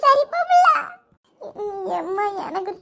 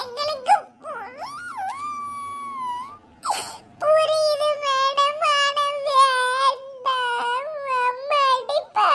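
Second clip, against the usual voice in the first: slow, tearful refusal; weep, afraid of mother's beating; much slower than usual. Acted. Girl tells the policewoman mother will beat her, slow and tearful.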